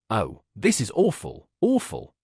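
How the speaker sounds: a pained, rising cry on awful; Dolly dismayed at Karenin's news. Acted.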